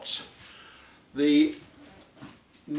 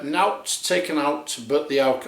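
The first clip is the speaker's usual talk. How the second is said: light Yorkshire accent on the label slogan. Shown as a demonstration. Reading the bottle slogan to viewers, light Yorkshire accent. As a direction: read it the Yorkshire way, half joking. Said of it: "I don't know why I have to do the accent".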